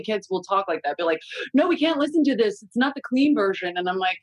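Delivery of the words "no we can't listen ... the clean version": higher, lightly voiced worried child; imitated objecting kid. Mom mimicking kids objecting to a song, mildly alarmed. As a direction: pitch it up like a protesting kid.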